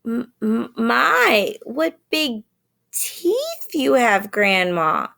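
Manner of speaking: high, slow, frightened stammer; stuttering fear. A narrator's reading. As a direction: stammer it out in terror. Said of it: "stuttered Little Red Riding Hood".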